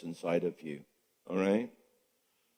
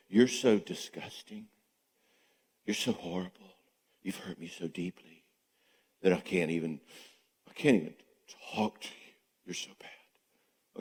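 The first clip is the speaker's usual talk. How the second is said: mock shaming voice; 4 semitones lower, 7 dB quieter than usual. Voicing silent treatment's implied shame.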